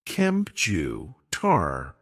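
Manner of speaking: "Kempju, tar" broken apart, last part dropping low; syllable breakdown. Shown as a demonstration. Teacher showing dictionary stress mark in computer, syllable breakdown. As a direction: sound out "Kempju", pause, then low "tar". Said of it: "mark before the stressed syllable".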